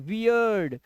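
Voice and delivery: "वियर्ड" with an ee-uh glide as in ear; "ear" vowel sound. Shown as a demonstration. Teacher demonstrates the sound to learners, "ear" glide in "वियर्ड". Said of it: "यहाँ पे ईयर की आवाज आ रही है".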